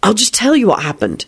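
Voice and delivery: mildly patient and even; patient reply. A narrator's reading. William offering Rosie an alternative, mildly patient. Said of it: "William would reply patiently".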